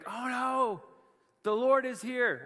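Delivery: high, mock-panicked "Oh no"; mock alarm. Adam and Eve hear God coming, mock panic.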